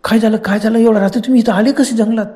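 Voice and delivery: concerned villager. Acted. Village woman asks the frightened boys what happened, mildly worried. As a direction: ask anxiously what happened.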